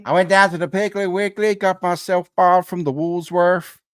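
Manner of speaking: high, loud country American twang; broad, hammed-up American accent; mock American accent. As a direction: play an exaggerated American local. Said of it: "I learned my American accent".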